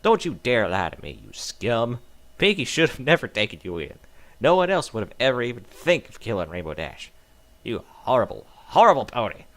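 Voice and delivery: loud furious screaming; enraged friend screaming accusations; frantic screaming. Acted. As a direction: scream right in their face. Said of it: "began screaming frantically in my face".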